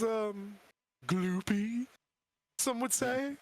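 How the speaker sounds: creepy sing-song undead voice; Lich voice. Acted. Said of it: "the voice is a side effect".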